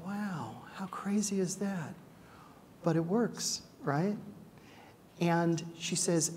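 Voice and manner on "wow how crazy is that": soft whispered aside; inner thought. Retold or imitated. Speaker thinking to himself in the convent, whispered. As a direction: whisper it to yourself. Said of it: "And I thought".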